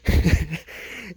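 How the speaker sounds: brief chuckle at own punchline; amused laugh. Real, not acted. Vlogger tickled by own comeback to couple, amused chuckle. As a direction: let out a short laugh.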